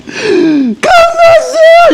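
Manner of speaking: 울부짖음. Retold or imitated. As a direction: sob it out like a man who just lost everything. 바울이 울부짖는 재연. (절망에 찬 울부짖음)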